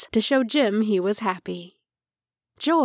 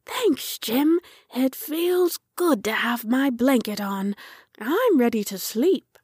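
a hint of a grateful youngster; contented little tractor; 2 semitones higher than usual.

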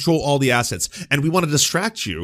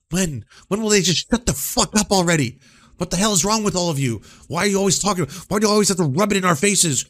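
raised, higher indignant outburst; exasperated rant; 5 semitones higher, 4 dB louder than usual. Acted. Streamer voicing people sick of civil rights talk, exasperated rant. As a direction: rail loudly, building to a fed-up shout. Mock fed-up rant as opponents.

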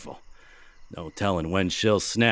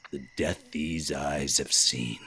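whisper; 6 semitones lower, 5 dB quieter than usual. Acted. Officer's dramatic aside.

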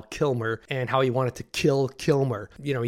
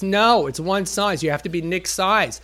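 lispy wardrobe guy; 5 semitones higher, 4 dB louder than usual. Retold or imitated. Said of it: "very lispy".

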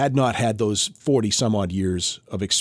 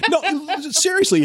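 laughing. Real, not acted. Laughing self-correction.

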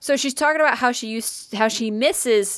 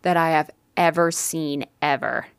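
low, dreamy imitation of an admirer; dreamy, airy voice; 4 semitones lower than usual. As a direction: say it airily, sinking lower toward the end. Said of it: "airy voice".

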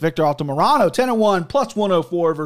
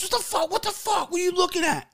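mock angry driver; 13 semitones higher, 5 dB quieter than usual. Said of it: "He goes".

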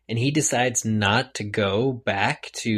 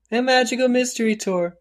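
mock sing-song; 14 semitones higher, 4 dB louder than usual. Sing-song reference to a band.

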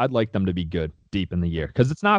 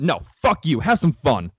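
angry; 5 semitones higher than usual. Real, not acted. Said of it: "I got really mad off the cuff there".

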